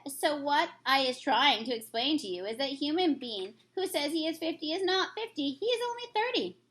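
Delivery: a lightly voiced kindly giant; friendly old giant, lightly put on; BFG voice. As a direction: read the giant's lines with gentle storybook character.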